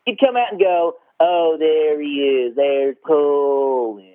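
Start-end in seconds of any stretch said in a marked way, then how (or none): 1.2-4.1 slow drawn-out sneering boss voice; Jack Nicholson impression. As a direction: drag out the name slowly like Nicholson. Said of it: "he'd kinda talk like Jack Nicholson".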